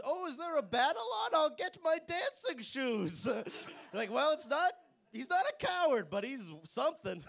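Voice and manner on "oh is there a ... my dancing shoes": put-on posh little kid. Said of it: "the little kid that goes".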